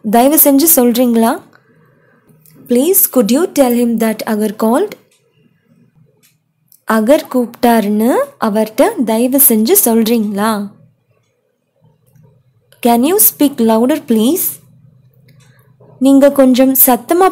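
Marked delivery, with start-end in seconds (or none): 2.7-4.9 slow, clear, each word set apart; slow model phrase. Shown as a demonstration. Teacher modeling a phone phrase for students, slow and clear. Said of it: "teacher models English phrase". 12.9-14.5 slow, clear, each word set apart; slow model phrase. Shown as a demonstration. Teacher modeling a phone phrase for students, slow and clear. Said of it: "teacher models English phrase".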